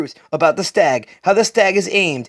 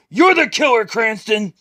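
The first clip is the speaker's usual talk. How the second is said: higher, pushed-out yell at the killer; yelled accusation; 5 semitones higher than usual. Acted. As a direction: shout the name as an accusation. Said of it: "yells out".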